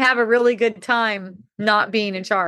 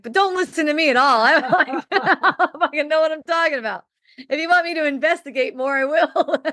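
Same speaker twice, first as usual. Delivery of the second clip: laughing through the words, higher; 7 semitones higher than usual. Retold or imitated. Brushing off her own condo advice, laughing throughout. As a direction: giggle while taking it back.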